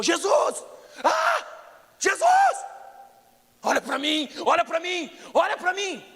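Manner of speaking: very high loud repeated cry; desperate shouting. Retold or imitated. Blind Bartimaeus screams for Jesus, desperate loud cry. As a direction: scream to be noticed over the crowd. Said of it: "E ele ficou".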